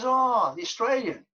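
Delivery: high, loud knowing "oh"; knowing recognition. Retold or imitated. Manager recognises the Australian, high knowing exclamation. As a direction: land on it as if you have placed him.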